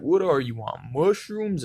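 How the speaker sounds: rising high onto mushrooms; incredulous question. Retold or imitated. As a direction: imitate a baffled, disbelieving question. Retold worker's incredulous question, repeated.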